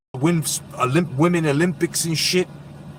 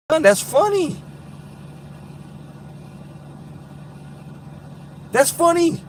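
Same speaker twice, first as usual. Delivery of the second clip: high-pitched through laughter; high amused squeal; 12 semitones higher, 4 dB quieter than usual. Real, not acted. Streamer cracking up, high and squealing.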